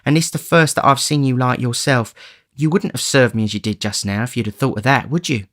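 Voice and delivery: woman's tenderness, rising to a plea; tender coaxing. Acted. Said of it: "a woman's tenderness".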